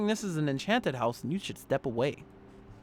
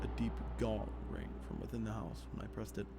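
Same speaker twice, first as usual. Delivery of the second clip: lower, measured reading voice; story narration; 4 semitones lower, 9 dB quieter than usual. Acted. Player reading horror game text, in subdued narration. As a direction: read the horror story aloud evenly. Reads the game's story aloud.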